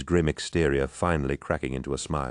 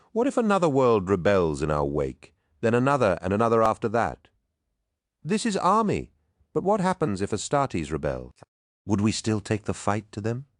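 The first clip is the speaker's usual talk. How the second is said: urgent warrior pressing his case, pitched up; agitated Loken; 6 semitones higher than usual. A narrator's reading. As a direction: pile up the what-ifs, voice raised in pitch. Narrator plays agitated Loken arguing.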